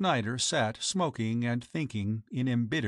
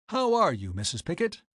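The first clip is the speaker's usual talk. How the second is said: genial; 5 semitones higher than usual. Acted. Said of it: "said Mister Snyder genially".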